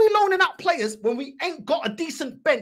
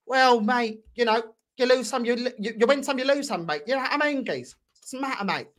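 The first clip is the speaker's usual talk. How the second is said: mocking blasé fan; 4 semitones lower, 3 dB quieter than usual. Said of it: "and your reaction is".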